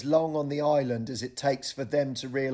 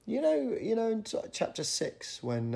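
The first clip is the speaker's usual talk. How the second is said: probing friend; 8 semitones higher, 4 dB quieter than usual. Retold or imitated. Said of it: "they'd go".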